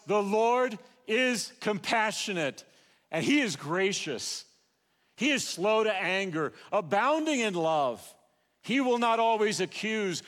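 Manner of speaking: fervent preaching. Acted. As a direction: preach it out with conviction to the congregation. Preaches about God's grace.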